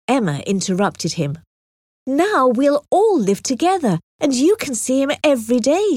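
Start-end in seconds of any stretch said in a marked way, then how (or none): 2.1-6.0 higher, bright coaxing smile. Acted. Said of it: "she said with a smile".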